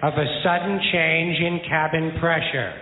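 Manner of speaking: mock flight attendant announcement. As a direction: drone it like a cabin safety spiel. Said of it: "In the unlikely event".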